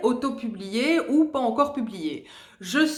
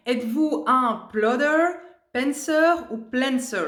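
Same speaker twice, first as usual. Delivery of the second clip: French speaker hamming up English words, slower; self-mocking English accent; 3 semitones higher than usual. Reading the tag question to viewers, mock English accent. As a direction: read the English terms in a jokey "super" accent. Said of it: "avec mon super accent".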